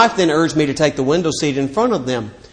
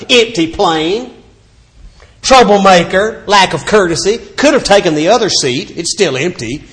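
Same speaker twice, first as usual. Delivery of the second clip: nagging wife; 3 semitones higher than usual. Retold or imitated. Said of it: "His wife kept on and on about my lack of cooperation".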